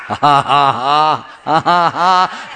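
loud, deliberate ha-ha laughing; demonstrative stagey laughter; forced laugh. Shown as a demonstration. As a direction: fake a laugh, one "ha" after another.

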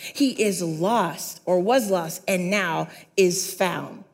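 measured, storytelling read of the parable; scripture reading. Acted. Preacher reading the prodigal son story to church, measured storytelling.

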